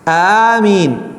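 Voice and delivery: amen held a little, no melody; just say it cleanly; correct amen. Shown as a demonstration. Teacher showing the boys the right amen. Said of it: "لا".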